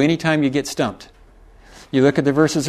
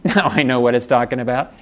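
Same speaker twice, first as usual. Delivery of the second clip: laughing realization; 3 semitones lower than usual. Retold or imitated. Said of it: "when I go".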